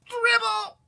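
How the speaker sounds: high loud announcement of the name; dramatic title cry. A narrator's reading. Narrator proclaiming the book title, loud and high. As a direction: call out the title with a big flourish.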